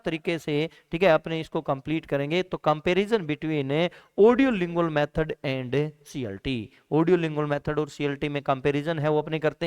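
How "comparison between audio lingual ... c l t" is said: reading out the heading word by word, very slowly. Shown as a demonstration. Teacher announcing the next topic slowly to the class. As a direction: spell out the topic title slowly for notes.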